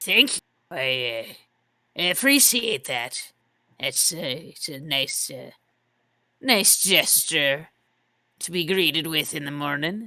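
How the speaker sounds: unconvincing put-on Irish accent. Voicing a character who thanks a player for a drink: put-on irish accent. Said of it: "I don't know why that's happening in my voice".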